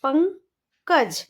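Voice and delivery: पंकज drawn out very slowly; slow sounding out. Shown as a demonstration. Teacher sounding out पंकज slowly for children. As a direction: stretch पंकज slowly, syllable by syllable. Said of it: "यहाँ पर लगाएंगे".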